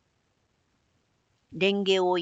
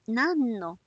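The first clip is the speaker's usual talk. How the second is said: smiling courtesan; 2 semitones higher than usual. Acted. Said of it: "にこやかにかぶりを振って".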